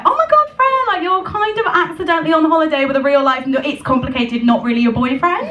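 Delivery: high excited squeal that fizzles out; squealing to herself. Retold or imitated. Telling herself on holiday with him, squealing high. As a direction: squeal then backpedal.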